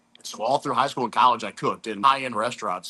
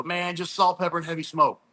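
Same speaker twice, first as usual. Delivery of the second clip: lightly raised voice of Cole giving his secret; a hint of Cole, said higher as a casual catchphrase; quoting Cole; 5 semitones higher than usual. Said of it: "And he'd always go".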